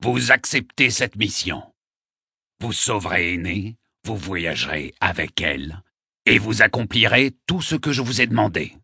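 put-on solemn old poet laying down a charge; measured, ringing formality; grave and resonant. A narrator's reading. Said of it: "d'une voix grave et sonore".

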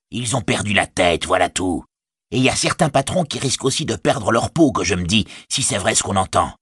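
mock the soldier as a scornful orc scout; sneering orc tracker. Orc tracker needling a soldier about bad news, sneering.

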